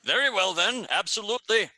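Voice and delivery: a put-on Garundi accent, eager to comply; poor Garundi accent. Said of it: "In a poor Garundi accent".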